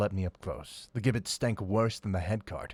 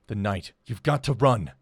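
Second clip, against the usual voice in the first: louder call over the downpour; shout over rain; 9 dB louder than usual. Acted. Priest warning the prince through the storm, shouting. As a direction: make yourself heard over the rain. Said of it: "had to shout over the rain".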